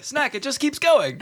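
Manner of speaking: slow, squeaky laughing voice; high genie voice. Acted. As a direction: giggle through the words.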